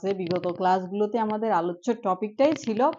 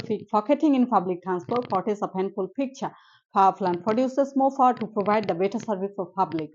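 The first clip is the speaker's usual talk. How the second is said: slow careful tongue-twister drill; much slower than usual. Shown as a demonstration. Teacher drilling a tongue twister slowly. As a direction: sound out each word slowly. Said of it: "ঠাং twister".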